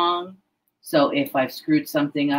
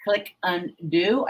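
stumbling over the words, restarting; halting false starts with a filler um; tongue-tied. Real, not acted. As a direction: trip over the phrase, stop and correct yourself. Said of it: "why I'm so tongue-tied today".

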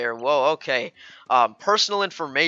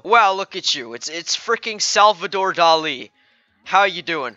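ordinary delivery

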